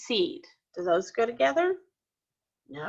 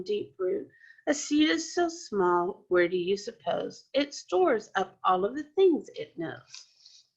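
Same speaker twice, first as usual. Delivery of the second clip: poem reading. Acted. Reads poem with class.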